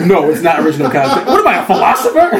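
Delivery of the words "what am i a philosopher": laughing. Real, not acted. Joking self-mockery.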